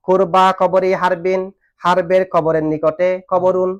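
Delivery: slow, measured chanting of the Arabic verse; slow verse recitation. Shown as a demonstration. Teacher reciting a verse line to students, slow and measured. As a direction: recite each word slowly for the class.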